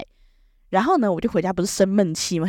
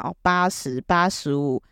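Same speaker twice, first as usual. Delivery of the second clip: teacher reading grades; 4 semitones lower, slower than usual. Retold or imitated. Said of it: "他就说".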